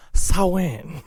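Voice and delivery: "Samhain" as a mock Chinese-accented "say when"; lightly put-on Chinese accent; stretched word in a caricatured Chinese accent. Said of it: "what, uh, a Chinese man says".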